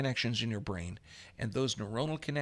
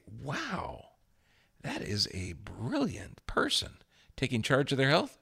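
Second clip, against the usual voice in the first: drawn, awed mock reaction; mock amazement. Teacher imagining the average person hearing the explanation, mock amazed. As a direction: play an impressed onlooker.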